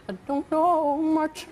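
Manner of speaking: high, slow crooning singer's voice; a singer impression. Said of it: "a singer".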